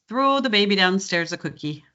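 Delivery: long round Minnesota O; Fargo accent. Shown as a demonstration. Coach showing her phrase for that sound, Fargo accent. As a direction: Upper Midwest practice phrase, Fargo vowels. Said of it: "the phrase I use for that sound".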